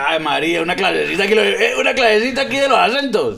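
loud, rising mock paisa; hammed-up Medellín accent. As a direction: exclaim in a high paisa lilt. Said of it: "El paisa de Medellín".

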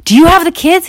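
high, loud frightened plea; panicked question. Acted. Frightened wife asking husband about the kids, panicked. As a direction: ask in rising panic.

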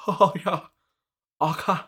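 high, loud put-on teen reply; hammed-up youthful okay; mock eighteen-year-old. Imagines self as an eighteen-year-old.

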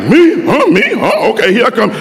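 can't believe he's picked; surprised kid. Retold or imitated.

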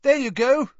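high and loud, delighted; happy yell. A narrator's reading. Ron handing Harry gold, yelling happily. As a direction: yell it gleefully. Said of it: "Ron yelled happily".

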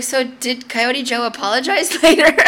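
teasing question that breaks into laughter; laughing at own joke. Real, not acted. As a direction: crack up before the last word.

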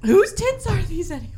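high, bright mock announcer call; mock game show host. Repeating the show title as a mock game show host.

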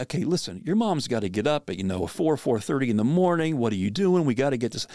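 mildly exasperated, hurried scolding; the tired-parent way he avoided, a touch impatient. Shown as a demonstration. Father to crying daughter, the wrong way, mildly impatient. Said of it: "rather than, you know, saying something like".

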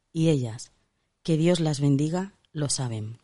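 expressive book-reading delivery; reading aloud. Acted. Host reads a feminist book to her co-host, read-aloud delivery. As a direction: read a comic memoir aloud, punching phrase openings.

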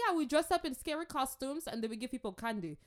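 high-pitched, eager explainer; mock enthusiasm. Churchgoer explaining costumes to an immigrant, mock enthusiasm. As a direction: imitate a keen, oblivious churchgoer.

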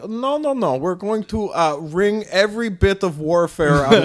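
lightly put-on Russian accent. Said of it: "became a Russian accent".

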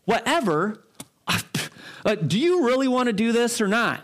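mock outraged, pitch jumping up; a lightly voiced uptight guy taking offense; offended disbelief. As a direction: repeat the word in offended disbelief. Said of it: "the guy that's a little uptight".

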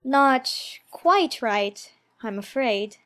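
put-on high, slow, hesitant girl's voice; timid. Alice admitting her mistake to the caterpillar, timid. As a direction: answer timidly in a high little voice. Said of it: "said Alice timidly".

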